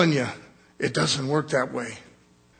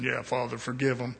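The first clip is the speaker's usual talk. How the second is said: mock pious; 5 semitones lower, 7 dB quieter than usual. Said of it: "I'd have been saying".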